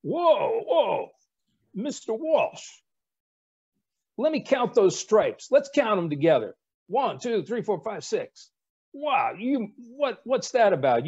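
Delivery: high, mock-incredulous Rickover imitation; mocking admiral. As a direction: needle the midshipman, counting stripes slowly. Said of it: "And Admiral Rickover says".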